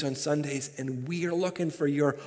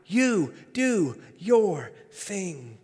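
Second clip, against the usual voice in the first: put-on high Southern accent, less forceful, ending very slow; Beth Moore; 5 semitones higher, 3 dB louder, much slower than usual. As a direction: space out the last words in a Southern lilt. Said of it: "Beth Moore in her southern accent says this".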